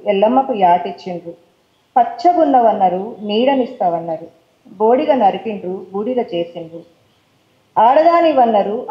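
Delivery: rhythmic verse reading, paired lines rising then falling; poem recital. Acted. Poet reciting her poem about women to the audience, rhythmic recital. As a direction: chant the couplets with steady rhythm.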